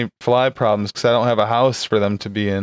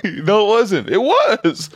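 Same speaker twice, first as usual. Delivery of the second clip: mock argument; 7 semitones higher, much slower than usual. Arguing neighbor voice.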